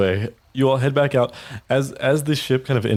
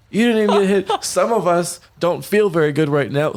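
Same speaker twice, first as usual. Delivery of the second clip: indignant whine; 9 semitones higher than usual. Acted. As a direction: complain sorely. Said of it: "he's like".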